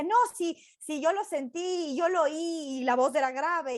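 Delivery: acted back-and-forth disagreement; arguing. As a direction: play someone insisting on their side. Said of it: "discutían como".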